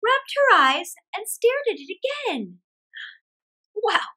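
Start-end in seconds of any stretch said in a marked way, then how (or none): 3.7-4.1 high, loud startled exclaim; astonished. Acted. Old woman sees silver, astonished. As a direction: gasp out surprise. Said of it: "she said at last".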